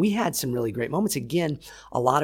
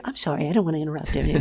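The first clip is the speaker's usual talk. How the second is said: quick, laughing timid apology; meek and sorry, rushed; apologetic self; 4 semitones higher, faster than usual. Retold or imitated. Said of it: "the opposite of me".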